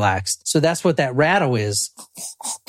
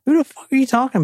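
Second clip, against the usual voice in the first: baffled villager; 10 semitones higher, faster than usual. Retold or imitated. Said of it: "They're like".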